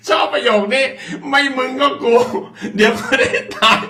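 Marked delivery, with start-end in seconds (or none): 2.8-3.8 laughing. Real, not acted. Host repeats the guest's blunt line, laughing.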